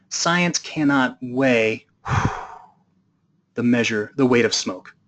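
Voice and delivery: very slow, with a sigh of smoke mid-line; drawn out like a smug baron exhaling; smug smoker's line. Retold or imitated. Baron exhaling cigarette smoke, challenging Newton, slow and smug. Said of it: "takes a long drag on his cigarette and goes".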